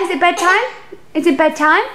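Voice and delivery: rising singsong questions. Real, not acted. Mum coaxing her baby toward bedtime. Baby talk before bed.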